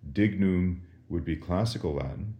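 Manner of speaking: usual speaking voice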